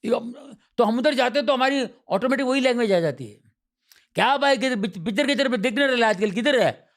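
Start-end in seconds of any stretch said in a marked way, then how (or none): 4.1-6.9 higher Bambaiya banter with a buddy; Bambaiya street slang. Retold or imitated. Visitor greeting an old Dharavi friend, Bambaiya slang. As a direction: chat with an old neighbourhood pal in street slang. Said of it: "वो same वो language आ जाती है".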